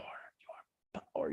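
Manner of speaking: breathy whispered affirmation. Real, not acted. Coach whispering it to the viewers. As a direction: drop to a whisper on the repeat.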